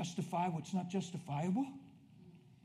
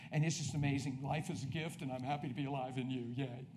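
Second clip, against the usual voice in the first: softer, intimate prayer to God; quiet prayer; 5 dB quieter than usual. Retold or imitated. Preacher kneeling before he preaches, quiet prayer. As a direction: pray it under your breath, sincerely. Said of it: "what I say is".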